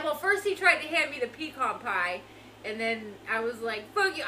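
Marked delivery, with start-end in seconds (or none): 3.9-4.2 high, louder mock-mad jab; retold angry outburst. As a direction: act out snubbing dad, mad. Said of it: "I was so mad at him".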